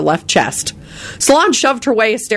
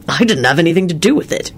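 cheerful. A narrator's reading. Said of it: "he said cheerfully".

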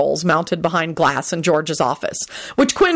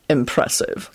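flat; 3 semitones lower, slower than usual. Acted. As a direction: say it with no interest. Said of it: "Quentin said flatly".

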